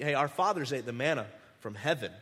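lightly mock the know-it-alls quoting scripture; mock pious. Crowd quoting scripture back at Jesus, lightly mocking and smug. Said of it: "they get really, really spiritual".

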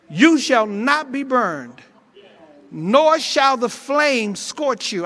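loud, rising to a shout on the fire; shouted preaching climax. Real, not acted. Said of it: "I feel a shout coming on me".

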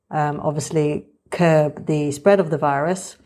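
muffled behind a surgical mask; through a face mask. Real, not acted. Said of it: "You're listening to me talk now with the mask on".

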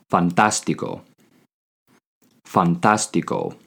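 fantástico said slowly, syllable by syllable; slow careful teacher repeat; slow model word. Shown as a demonstration. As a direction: draw out fantástico for learners. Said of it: "The word for fantastic is".

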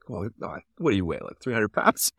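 lightly put-on Aussie guide; a hint of mock Australian; bad Australian accent. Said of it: "again, I'm gonna do the, the bad Australian accent".

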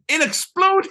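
squeaky excited. Real, not acted. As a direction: blurt it out delighted. Same words, flat then excited.

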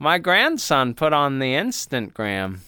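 put-on old person voice. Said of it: "I put that on the Facebook".

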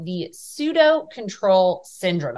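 deliberately slow, word by word; slow and careful. Real, not acted. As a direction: take each word of the term slowly. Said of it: "I have to say that slow".

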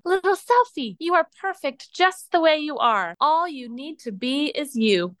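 high, airy, enchanted mirror voice, gentle at the end; magical mirror voice. Acted. Magic mirror telling Little Selfie she is perfect, high and enchanted. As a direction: sound like a kind magic mirror speaking from the glass. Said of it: "the most magical and mirrory voice say".

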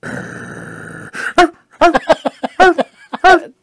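high yappy poodle barks; little poodle. Retold or imitated. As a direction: yap like a tiny dog. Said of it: "Sound like a little poodle".

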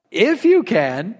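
"If you can" drawn out slowly, rising at the end; slow, questioning "If you can"; incredulous echo. Retold or imitated. Repeats the words as incredulous Jesus.

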